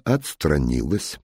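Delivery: plain reading voice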